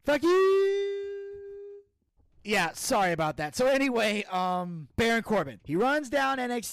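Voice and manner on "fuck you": high, loud outburst; raging gamer. Pretend. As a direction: blurt it high and furious. Character outburst.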